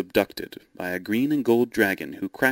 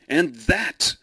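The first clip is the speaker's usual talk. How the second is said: triumphant cry; 8 semitones higher than usual. A narrator's reading. George striking the fleeing dragon, a triumphant high cry. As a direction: land each blow with a shout. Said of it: "he cried".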